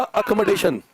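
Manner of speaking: slow, stretched-out word for dictation. Real, not acted. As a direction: say it slowly so students can write it. (श्रुतलेख के लिए धीरे, खींचकर)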